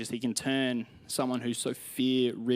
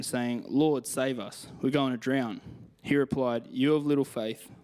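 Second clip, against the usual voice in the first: steady storytelling Bible reading; scripture reading. Acted. Preacher reading the storm passage to the congregation, earnest reading. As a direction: read the passage like a story with weight. Reads Matthew passage aloud.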